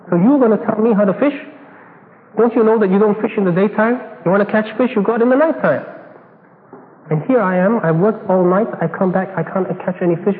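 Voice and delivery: who are you to teach me fishing; indignant retort. Acted. Peter argues how to fish.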